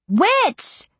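high, playful spooky cry; playful witch. A narrator's reading. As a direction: ham up a witch. Mimed stirring a cauldron and cackling.

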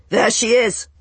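high, loud cry of discovery; calling out. A narrator's reading. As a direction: shout it to alert the others. Pursuer spots her, calls out.

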